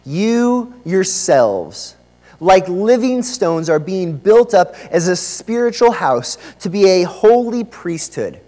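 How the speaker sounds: measured, emphatic reading of scripture. Acted. Preacher opens by reading the passage to the church, scripture reading. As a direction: proclaim it phrase by phrase, slowly.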